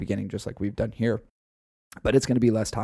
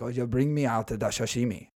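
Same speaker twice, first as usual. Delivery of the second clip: a lightly put-on mock Asian accent. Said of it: "the Asian accent".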